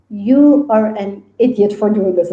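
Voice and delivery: slow, lightly acted scolding; blunt. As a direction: tell them off deliberately, word by word. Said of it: "like, very blunt".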